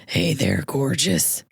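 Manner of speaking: a hint of a low devilish croon; devil under the bed. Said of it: "Kind of like a devil from underneath your bed".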